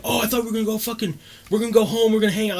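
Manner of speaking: lightly hammed-up whiny protest; imitating crazy lady. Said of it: "Just the typical, like, crazy lady".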